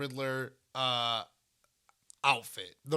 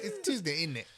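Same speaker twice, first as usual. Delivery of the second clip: mock British accent; 2 semitones higher than usual. Echoing a friend's British line, mock British accent.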